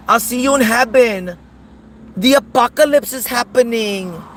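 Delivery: hammed-up Hispanic accent, wailing about the apocalypse; mock Hispanic accent. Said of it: "he had the worst Hispanic, ... dialect accent".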